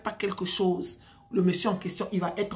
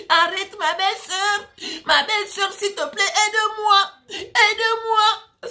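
put-on very high, loud, drawn-out Cameroonian-accented begging; hammed-up desperate plea in Cameroonian accent; 12 semitones higher, 6 dB louder, slower than usual. Captive begs sister-in-law for help, wailing Cameroonian accent. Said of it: "Ton accent, là, c'est pas l'accent du blanc".

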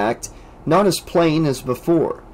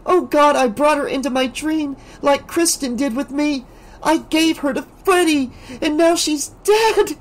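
hissed; 13 semitones higher than usual. A narrator's reading. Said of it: "she hissed".

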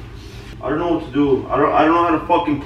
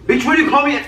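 loud sharp voice; 10 semitones higher, 4 dB louder, faster than usual. Real, not acted. Heated argument over ring.

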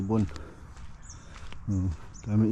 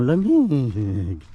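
slow drawn-out bird voice; 3 semitones higher, 4 dB louder, much slower than usual. Retold or imitated. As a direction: stretch it like a freezing bird. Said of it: "Sabi niya".

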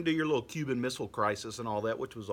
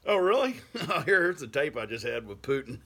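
smug mock surprise; 3 semitones higher, 3 dB louder than usual. Handing the FBI the tape, smug and laughing. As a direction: fake innocence while springing the trap. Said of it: "And I'd be like".

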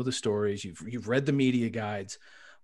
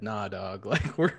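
laughing, higher, in a slangy put-on voice; mock coach quote; 5 semitones higher, 5 dB louder than usual. Host retelling the coach's choice, laughing put-on voice. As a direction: play the coach as a casual bro, laughing. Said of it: "did I just read that Calipari said".

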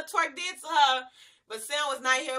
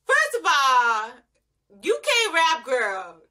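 roast her to her face, louder; sassy call-out; 5 dB louder than usual. Real, not acted. Roasting the girl on the show.

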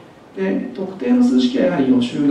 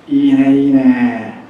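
褒め言葉; 5 dB louder, much slower than usual. Acted. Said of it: "という褒めの言葉です".

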